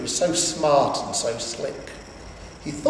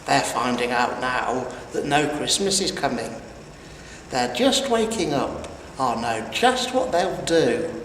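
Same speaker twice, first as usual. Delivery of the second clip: low, smug villain voice; gloating Grinch; 3 semitones lower than usual. Acted. Grinch imagining the Whos waking, low gloat. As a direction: relish every word of their misery. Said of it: "he was grinchishly humming".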